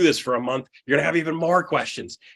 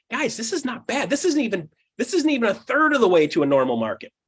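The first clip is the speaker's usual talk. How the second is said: high, insistent this-isn't-even; emphatic correction; 7 semitones higher than usual. Retold or imitated. Speaker correcting an audience, high and insistent. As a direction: push the correction.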